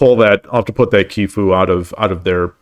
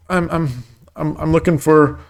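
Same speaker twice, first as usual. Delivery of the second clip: playful stab at New York speech; New York accent; 6 semitones higher than usual. Pretend. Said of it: "that's my New York accent".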